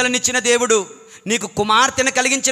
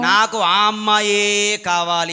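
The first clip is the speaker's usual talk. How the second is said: stubborn Samson; slower than usual. Retold or imitated. Preacher voicing Samson's stubborn want.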